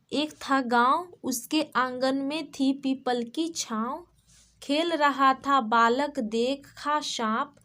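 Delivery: slow, measured rhyme recital; children's poem reading. Shown as a demonstration. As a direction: read it out line by line for small pupils, slowly. Reads the rhyme aloud. (धीरे-धीरे कविता पाठ)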